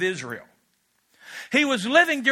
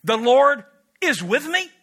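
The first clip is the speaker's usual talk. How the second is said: sceptical quote; 3 semitones higher, 4 dB louder than usual. Retold or imitated. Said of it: "Gideon said this".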